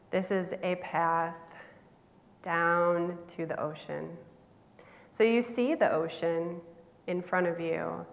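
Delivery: unhurried meditation guide with long pauses; spacious guided-imagery delivery. Acted. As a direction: lead listeners gently through a visualization, pausing between phrases.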